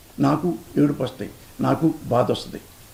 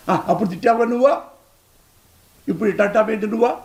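mocking quote; 5 semitones higher than usual. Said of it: "నీలాగా మాట్లాడలా".

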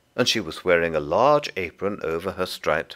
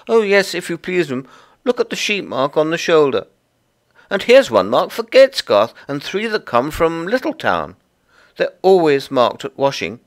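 high, loud little creature voice; busy Tiggywinkle; 10 semitones higher, 7 dB louder than usual. Acted. Tiggywinkle explains the washing to Lucy, high and busy. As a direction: chatter away as a small fussy laundress.

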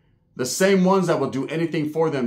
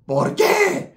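scared paisa; 4 dB louder than usual. Retold or imitated. Scared paisa being grabbed.

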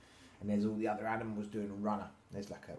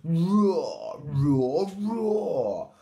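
loud, raised, drawn-out roars; lion cubs roaring; 7 semitones higher, 9 dB louder, much slower than usual. A narrator's reading. Siblings answering Little Lion's squeak, loud roars. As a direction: roar it like showing off. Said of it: "waking up and roaring loudly".

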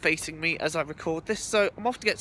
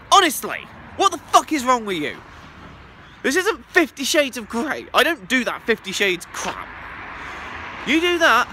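louder, higher disgusted rant; mock outrage; 5 semitones higher, 4 dB louder than usual. Answering a crude viewer question, louder mock outrage. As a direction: scold the viewer in playful disgust.

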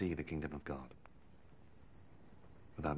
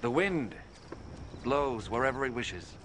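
rising proclamation; 4 semitones higher than usual. Acted. Jesus preaching to Nicodemus.

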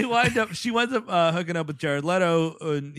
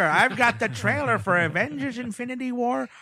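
mock trailer announcer; 5 semitones higher than usual.

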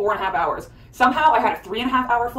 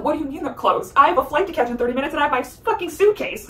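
higher-pitched incredulous protest; exasperated retort; 5 semitones higher than usual. Retold or imitated. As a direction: push back, pitched up and urgent. Retold argument with rude airline woman.

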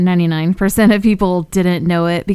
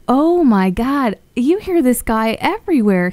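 retold amazement, pitched up; amazed; 5 semitones higher than usual. YouTuber retelling reaction to voice actor's work, amazed.

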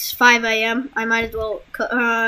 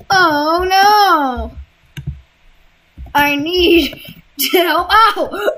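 mock panic; 4 semitones higher, much slower than usual. Possessed, panicking.

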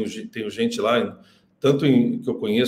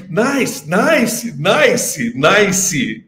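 mock clueless nice; 5 semitones higher, 4 dB louder, much slower than usual. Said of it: "ele falava assim".

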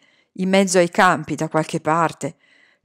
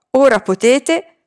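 loud, high, slowed shout; 5 semitones higher, 5 dB louder, slower than usual. A narrator's reading. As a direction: call out across the hill while running. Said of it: "ci urlò". (grido alto e forte, lento, mentre corre)

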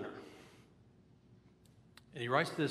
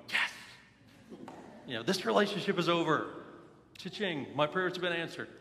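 higher-pitched mock inner celebration; mom's secret triumph; 4 semitones higher than usual. Mom privately cheering her son's breakup, mock triumphant. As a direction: voice a gleeful private victory cheer. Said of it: "deep in her soul, my mom's going".

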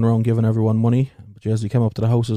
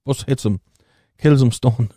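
ordinary delivery

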